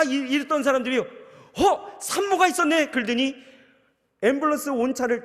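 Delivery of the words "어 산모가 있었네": much higher and louder, caught off guard; startled drivers spotting the pregnant wife, voice jumping high; sudden surprise. Retold or imitated. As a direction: gasp it out like you just noticed her.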